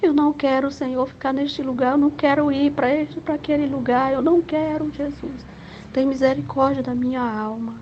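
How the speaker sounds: high, tearful begging to Jesus; retold tearful prayer for mercy; crying prayer. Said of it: "E eu chorava muito".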